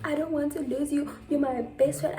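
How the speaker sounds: mock crying plea. Crying friend begging to keep the friendship, mock tearful. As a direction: plead in a put-on crying voice. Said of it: "She's crying, like".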